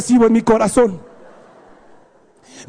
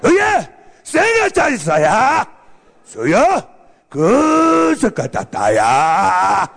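exaggerated fake Asian-sounding gibberish, slow and swooping; mock kung-fu movie dub; 6 semitones lower, much slower than usual. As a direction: parody a badly dubbed ninja film. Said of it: "el ninja le habla así".

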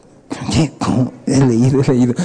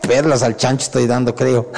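laughing inner thought; 5 semitones lower than usual. Retold or imitated. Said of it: "dentro de mí digo".

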